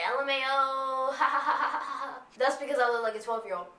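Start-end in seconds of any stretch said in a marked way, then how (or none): 0.1-2.2 mock laughing. Laughing at her friend's hurt feelings on the ride. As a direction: spell it out, then burst into laughter. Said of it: "I was like".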